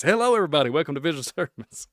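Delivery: high, loud seventies CB radio host voice; CB radio guy. Shown as a demonstration. Vlogger greets viewers as a seventies CB radio guy. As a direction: play a cheesy seventies radio announcer. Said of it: "I'm the C B radio guy from the nineteen seventies".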